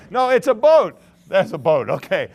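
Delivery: insisting loudly. Real, not acted. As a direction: set the crowd straight, firmly. Insisting to crowd on drawing.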